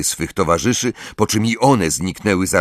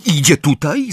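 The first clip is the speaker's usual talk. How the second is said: higher, urgent question; quick urgent question; 7 semitones higher, 3 dB louder than usual. A narrator's reading. Harry asks the elf if she's coming, urgent. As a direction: ask it quickly, on edge. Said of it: "zapytał szybko Harry".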